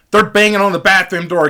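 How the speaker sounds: usual speaking voice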